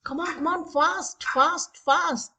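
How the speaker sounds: pressing, game-host urgency; urging on. Pretend. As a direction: hurry the players along before time runs out. Quiz timer running, hurrying the players.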